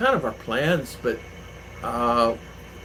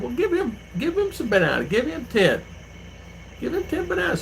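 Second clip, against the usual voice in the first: retold instruction; 11 semitones higher than usual. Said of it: "So I said".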